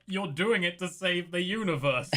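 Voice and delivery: half-held-back imagined yell; mock yelling. Player yells in his head at Leon, mild mock yell. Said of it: "in my head, I'm yelling".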